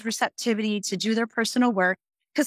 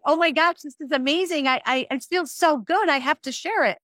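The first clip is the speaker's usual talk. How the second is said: excited gush; 5 semitones higher than usual. Retold or imitated. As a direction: relive the thrill, voice lifted. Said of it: "I was so excited about it".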